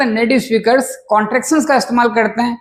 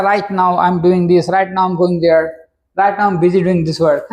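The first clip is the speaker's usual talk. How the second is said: slow example sentences; 3 semitones lower, much slower than usual. Shown as a demonstration. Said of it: "teacher reads example sentences slowly".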